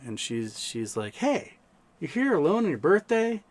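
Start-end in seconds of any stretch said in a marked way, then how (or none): 1.1-3.4 high-pitched imitation of a woman inviting; imitated Australian lady. Concierge asking him to dinner, imitated high-pitched Australian lady. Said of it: "this beautiful Australian lady".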